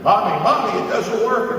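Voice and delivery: put-on high, loud wailing kid; child screaming. Five-year-old screaming to mommy about the TV, high and loud. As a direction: wail like a five-year-old whose toy broke. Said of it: "screaming and crying like bloody murder".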